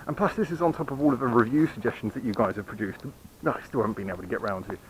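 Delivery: talking through hiccups. Real, not acted. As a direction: speak while hiccuping. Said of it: "Sorry, I'm hiccuping".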